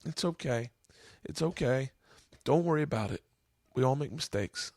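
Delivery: tearful, forgiving mom's words; emotional reassurance. Real, not acted. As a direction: comfort gently while holding back real tears. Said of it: "I didn't think I'd get emotional telling you that dream".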